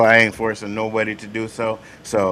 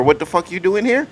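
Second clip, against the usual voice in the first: acted-out hostile challenge, a bit higher; aggressive; 5 semitones higher than usual. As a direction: imitate an aggressive demand with a rising end. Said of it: "when you come aggressive talking about".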